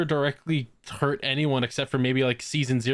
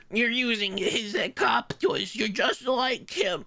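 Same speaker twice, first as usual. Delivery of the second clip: high, drawn-out mock quote; lightly hammed-up, pitched-up imitation; mock character voice; 7 semitones higher, slower than usual. Acted quote of shouting character.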